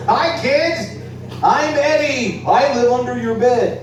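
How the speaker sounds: high, loud, drawn-out puppet voice; creepy playful under bed voice. Pretend. Puppet voice introduces itself.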